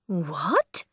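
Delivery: whisper. Acted. Mother cat scolding.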